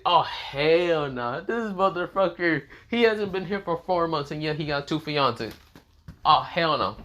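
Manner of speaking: slow, drawn-out outraged guys; mock outrage; jealous guys. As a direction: drag it out in jealous disbelief. Every guy outraged.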